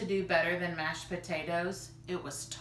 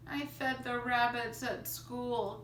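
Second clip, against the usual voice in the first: confessing; 5 semitones higher than usual. Acted. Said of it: "confessed Kenny".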